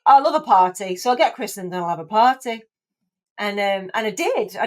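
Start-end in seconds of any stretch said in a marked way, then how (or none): 0.1-2.6 gleeful party enthusiasm. Retold or imitated. Acting out her own past glee.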